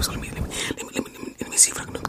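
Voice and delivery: wet ASMR mouth sounds; drooly clicking mouth noises. Shown as a demonstration. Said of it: "I've been practicing my mouth sounds too".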